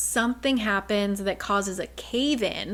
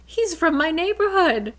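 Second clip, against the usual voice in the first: high, loud, thrilled; proud that he's from home; giddy recognition; 8 semitones higher, 5 dB louder than usual. Retold or imitated. Bryce strangely comforted by Midgard.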